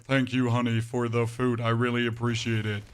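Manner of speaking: level, even-pitched thank-you; monotone thanks. Retold or imitated. Husband thanking his wife for the food, monotone. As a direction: thank them with barely any inflection. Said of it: "Extremely monotone".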